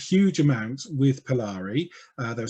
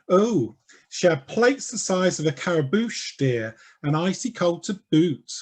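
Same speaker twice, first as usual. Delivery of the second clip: camp gossip example; 3 semitones higher than usual. Shown as a demonstration. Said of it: "So an example in Polari would be".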